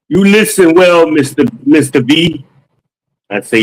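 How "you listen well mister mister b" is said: imitating an African accent, pitched higher, weight on the second half, Mister B. The customer tells the salesman to listen, in an imitated African accent. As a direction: impersonate the African customer, stressing the end of each word. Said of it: "I think he was African".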